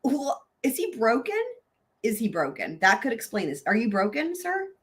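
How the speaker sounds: lightly bleating goat voice. Pretend. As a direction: ham it up like a goat. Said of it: "utilize the goat voice here".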